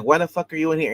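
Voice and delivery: hammed-up cop barking; mock angry detective. Detective demands why she is in the room, mock angry.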